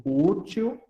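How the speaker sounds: "útil" with a lengthened first syllable; stress on Ú. Shown as a demonstration. Teacher pointing out the tonic syllable, stretched Ú in "útil". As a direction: dwell on the Ú of "útil". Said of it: "aqui é a minha sílaba tônica".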